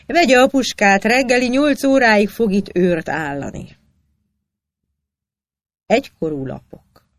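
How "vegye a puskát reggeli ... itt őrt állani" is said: stern order. A narrator's reading. Kossuth orders the officer sternly.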